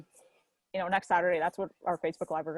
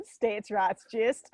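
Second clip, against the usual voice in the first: put-on Southern accent; much slower than usual. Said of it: "a better Southern accent than I did".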